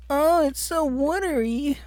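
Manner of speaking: high, eerie creepy voice. Acted. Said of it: "that fucking creepy ass voice".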